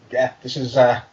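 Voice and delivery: hushed joking whisper. Pretend. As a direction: whisper it like a confession. Joking aside while reading fanfic.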